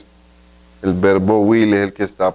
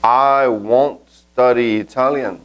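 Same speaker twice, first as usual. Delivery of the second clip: slow and a little higher; drawn out for learners; slow model sentence; 4 semitones higher, much slower than usual. Shown as a demonstration. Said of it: "Miremos cómo hacemos el verbo negativamente". (despacio y algo más agudo)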